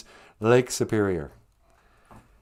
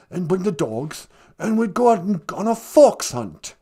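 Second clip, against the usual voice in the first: lightly put-on English accent; a hint of a posh British prince; mild English accent as Prince Harry. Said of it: "Prince Harry".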